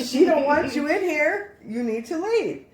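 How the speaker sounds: loud, high, slow reenacted order; acted-out forceful, deliberate demand; stern banishing. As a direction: tell the intruder off, word by word. Acting out ordering the presence away.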